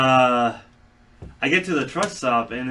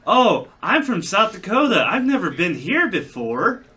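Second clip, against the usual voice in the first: naive outsider; 6 semitones higher than usual. Retold or imitated. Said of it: "from the point of view of".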